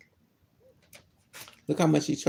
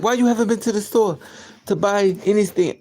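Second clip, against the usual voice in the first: nagging store owner; 5 semitones higher, 4 dB louder than usual. Retold or imitated. Voicing store owner's complaint.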